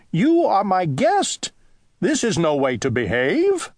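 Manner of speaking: scolding cry. Acted. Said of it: "cried Owl".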